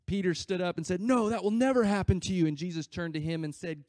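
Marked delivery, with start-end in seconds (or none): 1.0-2.5 protesting. Retold or imitated. Peter protests Jesus' talk of dying.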